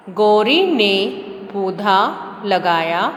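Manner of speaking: slow, careful reading aloud; teacher reading a primer aloud; reading to children. Acted. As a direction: read the lesson slowly for young learners. Reads lesson text aloud.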